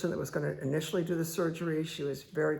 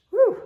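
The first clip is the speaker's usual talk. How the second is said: sneeze; 14 dB louder than usual. Real, not acted. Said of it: "I'm gonna sneeze right now".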